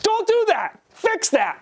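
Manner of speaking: high pitched mock yell at the kids; frantic coach shouting from the bench; retold courtside yelling. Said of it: "I'm just screaming out there like".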